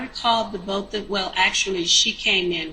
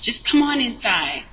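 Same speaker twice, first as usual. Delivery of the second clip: higher-pitched, insistent imitated call; aggressive calling out; 5 semitones higher, 4 dB louder than usual. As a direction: urge him in, pushy retelling. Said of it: "she was real aggressive with it".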